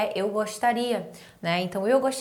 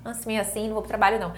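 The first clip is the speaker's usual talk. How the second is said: lazy worker; faster than usual. Retold or imitated. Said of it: "Muita gente".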